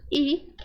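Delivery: the letter said as a plain ee sound. Shown as a demonstration. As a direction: say I like the vowel ee. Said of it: "Pode ser".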